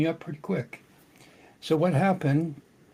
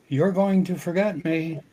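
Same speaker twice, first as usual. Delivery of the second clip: higher, louder imitated daughter's reproach; retold daughter in a dream; 4 semitones higher, 5 dB louder than usual. Late daughter to her father in a dream, retold reproach. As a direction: speak up as the daughter, raised pitch. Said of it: "spoke to me in straight up English".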